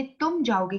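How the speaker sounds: तुम given clear emphasis; stress on तुम. Shown as a demonstration. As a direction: lean on the word तुम. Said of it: "अब ये जो word मैंने".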